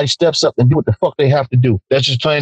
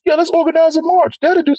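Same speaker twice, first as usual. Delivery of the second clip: sarcastic; 12 semitones higher than usual. Retold or imitated. Sarcastic echo of march idea.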